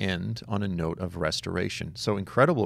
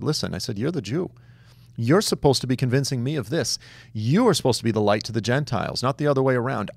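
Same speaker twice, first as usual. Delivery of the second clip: louder, higher insistent rebuke; retold firm rebuke; 4 semitones higher, 4 dB louder than usual. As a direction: press him hard, raised voice.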